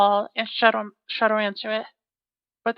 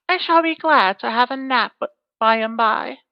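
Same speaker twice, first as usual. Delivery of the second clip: lightly voiced giantess; 4 dB louder than usual.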